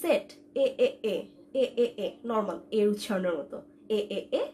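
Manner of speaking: সেট with a plain 'eh', then এ in separate beats; model pronunciation. Shown as a demonstration. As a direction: drill the 'eh' vowel of সেট. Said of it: "ই তালিং এর উচ্চারণটা হবে". (সেট-এর স্বাভাবিক এ আলাদা করে উচ্চারণ)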